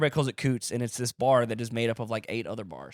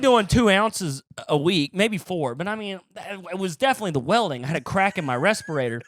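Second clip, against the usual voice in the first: mock defensive; 5 semitones higher than usual. Comic voicing the welder excusing his cocaine, mock defensive. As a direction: plead your case, pitched up.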